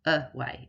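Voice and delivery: "away" with the first A said as uh; careful uh-way for learners; schwa demonstration. Shown as a demonstration. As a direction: say "away" as uh-WAY, showing the weak first vowel. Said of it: "and that says uh".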